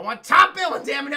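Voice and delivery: high, loud hammed-up yell; mock demand. Daffy demanding top billing, hammed-up yell. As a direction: stamp your foot and demand it.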